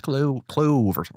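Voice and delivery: slow, put-on Irish accent; mock Irish accent, drawn out; Irish warm-up. Shown as a demonstration. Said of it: "I have to do Irish to get to Scottish".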